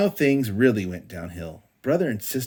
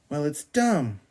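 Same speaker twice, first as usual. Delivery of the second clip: rude; 6 semitones higher, 3 dB louder than usual. A narrator's reading. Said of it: "said Sister rudely".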